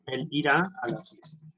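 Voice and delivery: irá stressed and stretched out on the final a; teacher stressing irá for the class. Shown as a demonstration. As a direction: lean on the end of irá, irá, like a teacher. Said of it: "Pone ese acento en el verbo".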